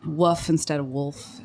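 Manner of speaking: "Woof" said with no l, like "woof", then "wolf" with the l; slow, "Woof" without the l, then "wolf" with it; pron demo. Shown as a demonstration. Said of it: "Like I say".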